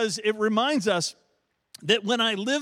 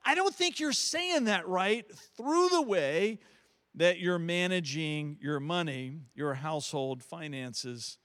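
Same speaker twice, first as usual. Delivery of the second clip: gentle voice of God. Pretend. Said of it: "is something in God saying".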